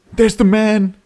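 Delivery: high, squealing fan thrill; mock excitement. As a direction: gush in a high voice as your hero arrives. Mock thrill as man appears.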